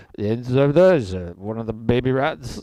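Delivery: play-acted drunken speech, words sloshing together. Imitating the lead actor of an old sci-fi movie: imitating drunk slurred speech. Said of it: "he just sounds super drunk".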